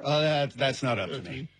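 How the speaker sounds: mildly resigned shrug; resigned acceptance. Acted. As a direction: hand off the decision, accepting it. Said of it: "he's accepted".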